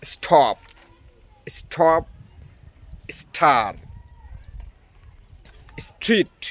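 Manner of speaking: স্টপ, স্টার, ট্রেন said with a breathy ঠ sound on the t; aspirated t in clusters. Shown as a demonstration. Teacher giving example words, breathy ঠ in each cluster. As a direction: push air through the t in স্টপ and ট্রেন. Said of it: "ঠি এর উচ্চারণ হবে ঠ এর মতো".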